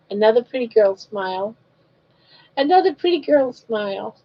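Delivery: sing-song coaxing, pitch rising toward the end; lightly lilting mama voice; baby talk. Acted. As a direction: coo at the baby to win a smile.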